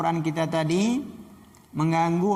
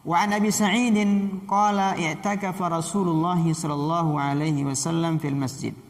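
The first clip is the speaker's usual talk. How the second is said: formal recitation, starting raised and easing down; Arabic hadith reading. Acted. Teacher reads a hadith from Abi Sa'id to students, formal recitation. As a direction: read the narration out to the class in a carrying voice.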